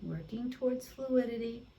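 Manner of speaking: hushed mindful cueing in short phrases; guided meditation. Real, not acted. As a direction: guide them gently, leaving long silences. Guides students through quiet noticing.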